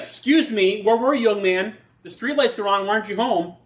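a hint of an annoyed mother; scolding parent. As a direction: play a parent calling a kid home late. Scolding parent voiced as God.

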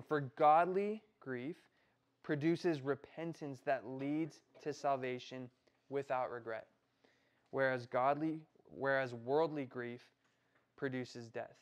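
slow, weighty reading with godly and worldly stressed; emphatic slow reread. Shown as a demonstration. Youth pastor rereads the verse to the group, slow and emphatic. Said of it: "I'm gonna read that again".

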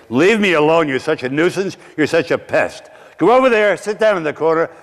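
a mild mock of a cold mother shoving the child away; mother's harsh rebuke. Mother pushing away the boy.

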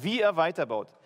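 emphasis laid on "wie" at the start; stress on WIE. Shown as a demonstration. Preacher showing the congregation the verse's emphasis, stress on "wie". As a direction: lean on the word "wie". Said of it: "hier die Betonung".

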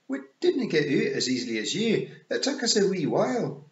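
high Scots pictsie, a touch shifty; Rob Anybody. Acted. Rob looking shifty before Tiffany, high Scots pictsie voice. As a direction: wriggle out of it in high, loud Scots.

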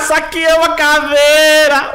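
high, loud, drawn-out yell with laughter; laughing victory scream; triumphant screaming. Real, not acted. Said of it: "eu tô gritando".

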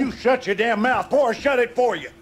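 fast, loud snarl of a threat; furious threat. Acted. Husband threatening his wife to silence her, furious.

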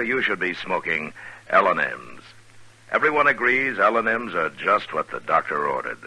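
upbeat sponsor pitch, friendly and persuasive; ad read. Acted. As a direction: sell the cigarettes like a trusted star. Star reads sponsor commercial.

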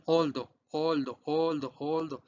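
"oldo" as two simple syllables, OL-do; model pronunciation. Shown as a demonstration. Teacher drills students despite the many letters, "oldo" said simply. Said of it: "¿Cómo se pronuncia oldo?".

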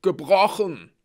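high loud pained wail; whimpering. Acted. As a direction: wail it like a broken bone. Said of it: "wimmerte Blitz".

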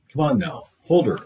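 high, loud urgent order; doctor urging the father, loud and high; urgent command. Acted. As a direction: push the father to hold on.

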